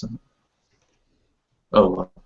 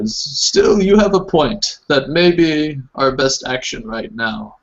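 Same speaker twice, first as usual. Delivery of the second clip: higher, weary mother conceding; tired mother; 5 semitones higher than usual. Acted. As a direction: give way with tired resignation. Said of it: "she says".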